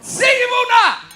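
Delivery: loud, slow, high bark of a fed-up cashier; mock shout of a surly checkout woman; grumpy shop worker shout. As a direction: bark it across the tills. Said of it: "Cornflake on the chin".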